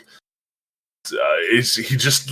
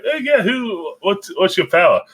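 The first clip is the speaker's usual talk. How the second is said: much higher-pitched imitation of a boy; questioning boy; 10 semitones higher than usual. Invisible Boy asking a newcomer's power, high mock questioning. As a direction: pitch it way up, lightly mocking the question.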